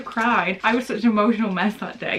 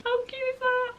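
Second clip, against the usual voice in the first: gushing; faster than usual. Real, not acted. Gushing over pin badge.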